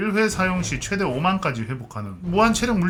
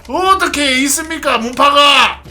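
hammed-up martial arts shout; 7 semitones higher, 7 dB louder, slower than usual. Insisting to suspicious players, hamming wuxia.

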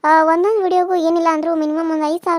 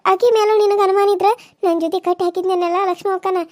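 urgent pleading; 2 semitones higher, 4 dB louder than usual. Acted. Wife pleads she is truthful.

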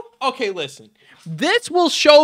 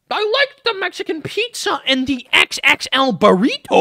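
higher-pitched mock quote; mocking imitation; 5 semitones higher than usual. Reactor mocks Shane caring about burritos, higher silly voice. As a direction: parrot it back with scorn, raised pitch. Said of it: "and he goes".

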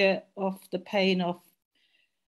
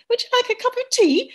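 much higher, louder, sing-song polite English; mimicking English lilt; 8 dB louder than usual. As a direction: send up the prim English tea offer. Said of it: "the rhythm of English that we thought was really funny".

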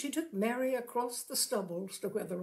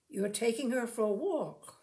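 musingly. Acted. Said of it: "said he musingly".

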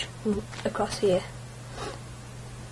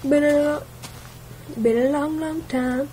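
warden; 5 semitones higher than usual. Acted. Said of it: "the warden said".

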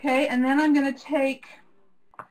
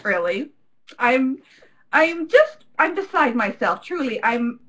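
lightly put-on gushing accent; the host's pretend accent. Host gushing to the audience in a light fake accent. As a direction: gush about being here, hammed-up. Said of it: "her, uh, pretend accent".

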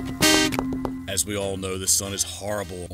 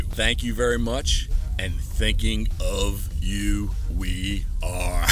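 drawn-out sign-off; slower than usual. Real, not acted. Slow sign-off catchphrase to viewers.

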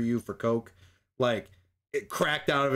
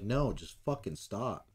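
fed-up plea; 5 semitones lower, 8 dB quieter, slower than usual. Retold or imitated. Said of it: "and it's like".

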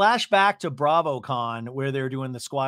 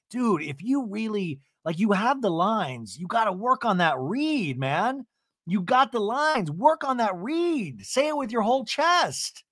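lively coaching rant; 6 semitones higher than usual. Real, not acted. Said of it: "coaching Teddi's delivery".

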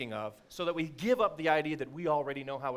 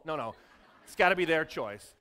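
ordinary talk, nothing marked

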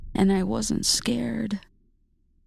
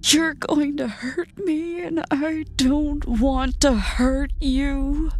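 high, tearful pleading; 7 semitones higher, 3 dB louder than usual. A narrator's reading. Double begging the narrator, high and tearful. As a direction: plead through tears, still sobbing. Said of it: "they sobbed".

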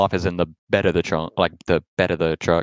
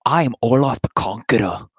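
Viking voice; 3 semitones higher than usual. Acted. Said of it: "Sound like a Viking or something".

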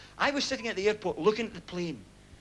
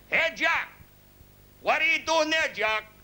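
high-pitched holler across a field; shouting over; 8 semitones higher, slower than usual. Acted. Big American hailing a farmer in the field, shouting over. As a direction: call out to someone far off. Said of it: "he shouts over, he goes".

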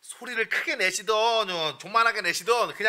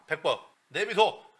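ordinary delivery

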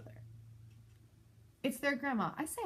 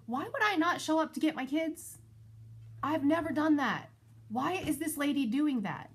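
exasperated; 5 semitones higher, 3 dB louder than usual. Real, not acted. Indignant outburst about the grandma.

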